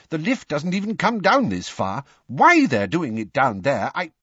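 breathless, agitated grumble; panting. A narrator's reading. Weasley taking steps two at a time, panting. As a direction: complain while out of breath, breaking off. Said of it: "panted Mister Weasley".

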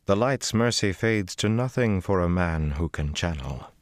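put-on slow, composed older woman's voice; unhurried, knowing; calm as ever. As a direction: Cadsuane telling Rand she knows his future. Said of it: "calm as ever".

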